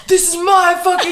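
high, loud mock scream into the phone; hammed-up shriek of triumph. Girl filming herself in the empty store, screaming.

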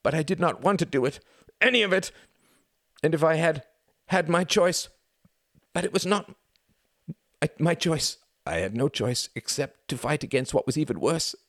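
high, loud anguished sobbing; weeping plea. A narrator's reading. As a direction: beg through the tears. Pleading for forgiveness, weeping.

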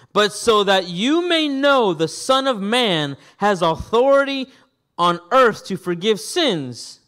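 measured, projected Bible reading; scripture reading. A narrator's reading. Preacher reading Jesus' answer to the congregation, declaimed scripture. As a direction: read it out with emphatic declamation.

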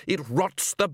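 theatrical rant climbing high; unhinged villain. Acted. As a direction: build to a high cry on the final word. Villain's ranting climax about madness.

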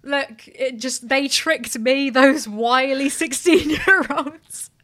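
very slow whiny excuse-making voice, a mock impression; mocking James Charles. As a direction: drag out a feeble excuse in slow motion. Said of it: "James Charles is still gonna be like".

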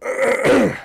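rough, unpleasant throat clear; harsh throat clearing. Real, not acted. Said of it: "that was not a pleasant clearing of the throat".

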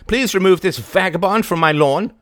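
put-on high, loud imperious old woman; haughty old lady. A narrator's reading. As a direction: order him like a grand dame. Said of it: "she cried".

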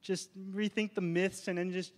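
mock soft, overly polite suggestion; hammed-up timid request to tone it down; polite conversation. Preacher mocking timid Timothy asking teachers politely, softly. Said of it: "just have a polite conversation".

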